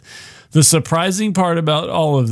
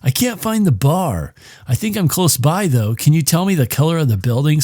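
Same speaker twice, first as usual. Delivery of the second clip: caller on phone; 3 semitones higher than usual. Retold or imitated. Caller asking his date for directions, lightly acted. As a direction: play a date phoning for directions.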